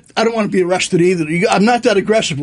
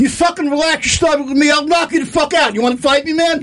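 higher tough-guy threats; 5 semitones higher than usual. Acted. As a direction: puff up and threaten. Threatening caller.

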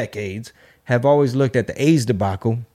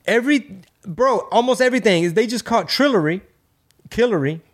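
excited rant; 2 semitones higher than usual. Retold or imitated. Ranting to others.

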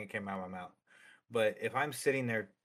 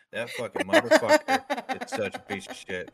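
much higher and louder fake-friend griping; off-camera rant; 11 semitones higher, 7 dB louder than usual. Two-faced streamer off camera, angry rant. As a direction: spit it out once the camera is off. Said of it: "Camera goes off".

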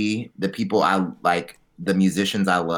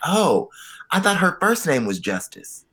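dumb guy voice; 9 semitones higher than usual. Retold or imitated. Quoting a clueless castmate.

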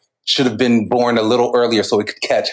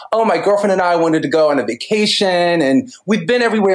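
put-on Valley Girl voice; 6 semitones higher than usual. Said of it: "in one of these Valley Girl voices".

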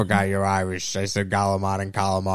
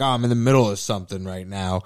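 annoyed Tony Soprano; 4 semitones lower, faster than usual. Retold or imitated. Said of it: "do Tony Soprano".

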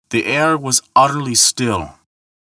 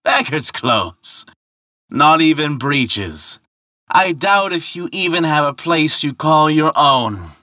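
scornful call, pitched up; scathing; 5 semitones higher than usual. Acted. Ferryman mocking Thor's poor dress, calling scathingly. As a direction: draw out the insult across the water. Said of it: "he called scathingly".

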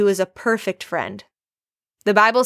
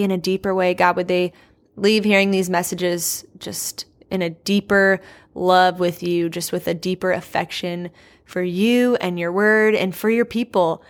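prayer. Real, not acted. Opening prayer before the lesson.

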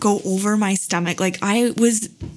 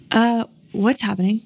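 mild puzzlement, retold; a touch of baffled hesitation; retold bewildered reaction; 3 semitones higher than usual. Mother reenacting her reaction to her water breaking, bewildered. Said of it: "That was my reaction".

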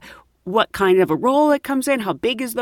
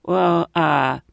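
nervous; slower than usual. Retold or imitated. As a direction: ask gingerly, pitch climbing at the end. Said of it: "I was starting to get nervous".

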